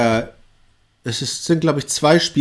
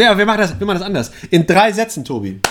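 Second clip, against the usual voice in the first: strict teacher; 5 semitones higher, faster than usual. Pretend. Teacher sets the task.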